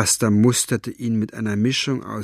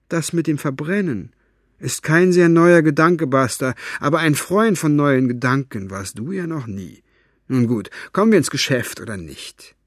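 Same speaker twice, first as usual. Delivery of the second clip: dry mocking old man; 4 semitones higher than usual. Fenoglio mocking.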